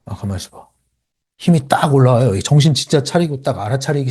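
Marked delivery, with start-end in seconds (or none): 0.0-0.7 hushed, lower aside to oneself; sudden self-check. Shown as a demonstration. Coach showing the moment after losing one's temper, quiet self-talk. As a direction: cut the anger off, quietly. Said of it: "그러다가".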